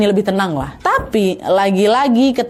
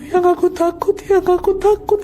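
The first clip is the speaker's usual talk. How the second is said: high, tearful whimper of fear; cling to him, scared and sobbing; wife crying to her husband in fear; frightened crying wife; 11 semitones higher than usual. Retold or imitated. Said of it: "tenangis-nangis Ria di situ".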